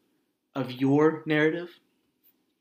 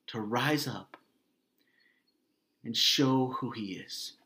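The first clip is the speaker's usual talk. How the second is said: whispered; 4 dB quieter than usual. Acted. Hushed phrase in the sermon.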